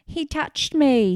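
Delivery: high, loud yell stressing me, "He touched ME!"; retold yell. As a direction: shriek it slowly, landing on "me". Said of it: "Michael is yelling".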